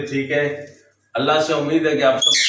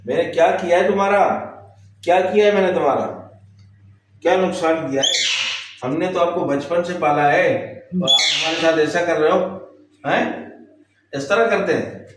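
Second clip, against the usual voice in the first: mock-hurt parental scolding; scolding a pet; 3 semitones higher than usual. Real, not acted. Scolding the pet bird for biting.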